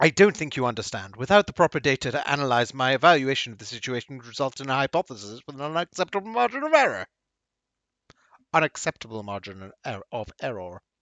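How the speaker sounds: loud, booming mercenary character voice.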